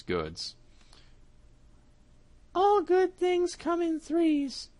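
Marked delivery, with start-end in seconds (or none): 2.5-4.7 high, slow cat voice, smug; satisfied cat. Acted. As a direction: savour it like a full cat. Cat scheming.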